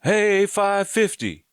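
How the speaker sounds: high, loud, drawn-out call; slow, high-pitched shout to someone far off; hollering at full voice. Retold or imitated. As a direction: reenact a holler down the cell block. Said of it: "holler out of his cell at the top of his voice".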